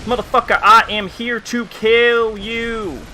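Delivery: put-on ghetto-country accent. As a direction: stretch out each word of the threat, high, in a half-ghetto, half-country accent. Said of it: "halfway between ghetto and country".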